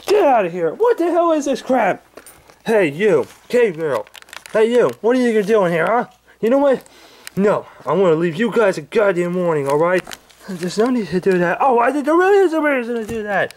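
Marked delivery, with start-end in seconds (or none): 0.1-10.0 Angry Grandpa voice. Acted. Old man woken by pranksters, high cranky yelling. 11.6-13.5 Angry Grandpa voice. Acted.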